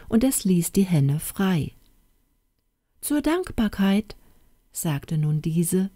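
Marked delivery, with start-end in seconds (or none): 3.0-4.2 hen voice. Acted. Hen speaking.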